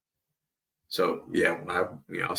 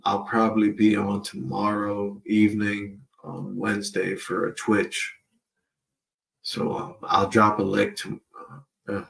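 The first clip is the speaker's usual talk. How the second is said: cotton in mouth. Real, not acted. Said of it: "it's hard to talk with this cotton".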